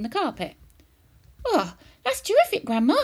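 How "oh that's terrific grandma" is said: high, loud, excited praise; boy crying out. A narrator's reading. George cheering grandma on her feet, crying out excitedly. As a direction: cry out in delight. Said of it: "George cried".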